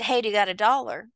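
quick, blunt ask for a dollar with no offer first. Shown as a demonstration. Asking a stranger straight out for a dollar, quick and blunt. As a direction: rush it out like you just want the money. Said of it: "And if I said".

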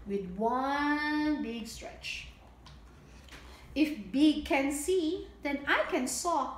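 bright, sing-song storybook read; lilting picture-book reading; reading to children. A narrator's reading. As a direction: read it out like storytime for little ones.

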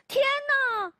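high, loud cry of alarm; startled cry. Acted. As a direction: gasp it out in a fright. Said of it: "霍普先生大叫一声". (惊慌地大叫)

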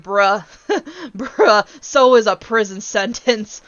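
amused, can't believe this excuse; laughing disbelief. Retold or imitated. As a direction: laugh through the bruh, then slow it down.

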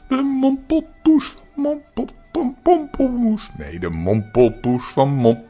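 loud, slow mangling of a funny name through laughter; high hooting laughs between tongue-tangled words; silly laughing. A narrator's reading. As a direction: laugh helplessly while trying to say it. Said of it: "zat nu zo dwaas te lachen".

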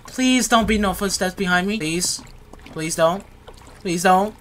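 tense little repeated pleas; anxious pleading. Real, not acted. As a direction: plead nervously, each phrase lifting at the end. Begging for no footsteps behind.

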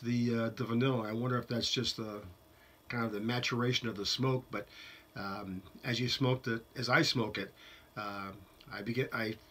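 talking around a pipe stem; pipe in mouth. Real, not acted. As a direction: teeth clenched on pipe. Seen 1: Pipe stem held between his teeth while he talks, all frames.

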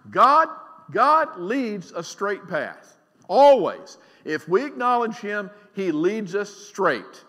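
loud, slow declaration of God's straight path; preaching shout. Real, not acted. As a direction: proclaim it slowly, full voice.

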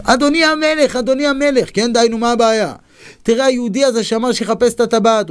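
high-pitched, urgent report to the king; acted-out indignant informer; agitated tattling. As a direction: run in with breathless outrage and tell on him. Tattling advisor runs to the king.

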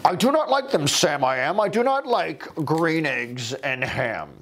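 a hint of a grouch refusing; crotchety old man. The old man turns Sam down, mildly grumpy. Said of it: "crotchety, grumpy".

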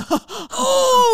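loud, high straining "hooo"; imitated effort cry. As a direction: heave with a Hulk-like cry. Imitates mom Hulking door open.

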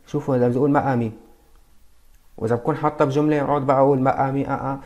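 ما امي said broken, with hesitant اه اه; halting wrong way. Shown as a demonstration. Teacher mimicking a learner stumbling over ما امي. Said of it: "واحد هندي عم يحكي عربي مكسر".

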